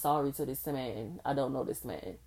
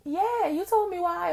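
imitating the friend; 6 dB louder than usual. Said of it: "And she was like".

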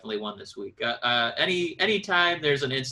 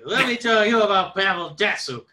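put-on crusty old-timer voice, higher and louder; old prospector; 5 semitones higher, 7 dB louder than usual. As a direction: grumble like a grizzled old geezer.

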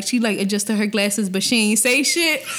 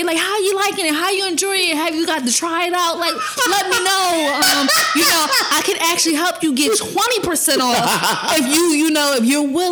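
higher, chirpy customer-service voice, teasing; mock sales caller; 3 semitones higher than usual. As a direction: play a pushy rep calling about an order, pitched up. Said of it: "he gonna be calling like".

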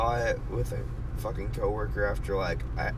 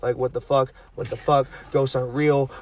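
panicked rant; 7 dB louder than usual. Retold or imitated. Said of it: "panic attack and ... sobbing".

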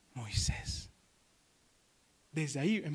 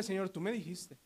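quiet reproach; 5 dB quieter than usual. Acted. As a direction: say it under your breath to God. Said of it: "qué difícil es decirle". (reproche en voz baja)

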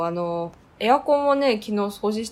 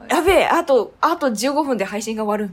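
loud, higher mock panic; panicked rush; 4 semitones higher, 5 dB louder than usual. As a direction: hurry before the stream ends. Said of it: "みたいな。".

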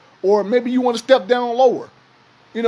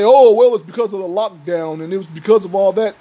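dismissive mock quote. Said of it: "everybody wants to say".

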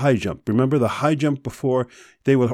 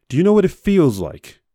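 higher and louder, exasperated demand; real anger; 8 semitones higher, 5 dB louder than usual. Real, not acted. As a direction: drive the question at them, fed up. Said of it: "I'm pissed right now".

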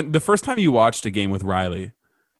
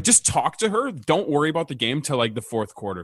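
retold self-coaching; 3 semitones higher, 6 dB quieter than usual. Coaching himself on a date, retold self-coaching. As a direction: urge yourself quietly, pitch way up.

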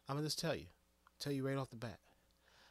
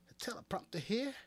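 whisper; 10 semitones higher than usual. Real, not acted. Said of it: "whispered aside".

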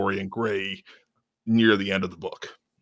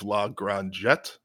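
French pronunciation; much slower than usual. Shown as a demonstration. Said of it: "I just used my French".

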